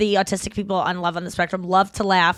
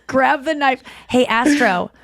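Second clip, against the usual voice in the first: mock voice command; 3 semitones higher, 3 dB louder, slower than usual. Mock orders to a robot, Astro.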